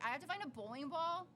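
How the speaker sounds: high, incredulous retold questioning; baffled protest. Retelling her protest at choosing a ball, baffled.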